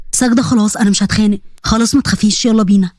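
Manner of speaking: lightly voiced man soothing a girl; reassuring. Hamza calming crying Sagda after the fight, reassuring.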